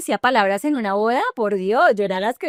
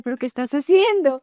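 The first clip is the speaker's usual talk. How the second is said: incredulous; 6 semitones higher, 4 dB louder than usual. Retold or imitated. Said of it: "Y yo decía".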